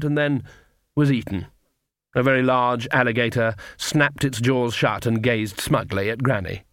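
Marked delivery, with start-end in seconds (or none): none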